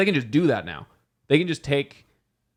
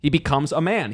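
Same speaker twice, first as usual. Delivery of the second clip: excited; 7 semitones higher than usual. Real, not acted. Excited about Spider-Man theory.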